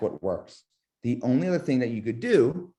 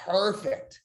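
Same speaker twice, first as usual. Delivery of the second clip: bright, higher excited "perfect"; 9 semitones higher than usual. Shown as a demonstration. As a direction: lift the energy on it. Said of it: "Energy up".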